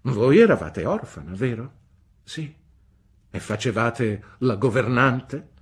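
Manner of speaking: high, loud, brusque "Bene?"; stern old aunt. A narrator's reading. Aunt Betsy demanding news from the mother, brusque. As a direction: demand an answer like a sharp old lady.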